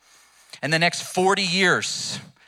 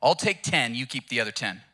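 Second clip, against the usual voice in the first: dog complaining; 4 semitones higher than usual. Acted. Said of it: "the dog's like".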